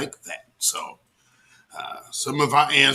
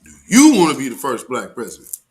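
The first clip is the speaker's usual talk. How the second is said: louder, punching the word you; insistent louder question, stress on you; louder repeat; 3 semitones lower, 6 dB louder, faster than usual. Real, not acted. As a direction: ask again with more force, leaning on you. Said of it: "repeated question, louder".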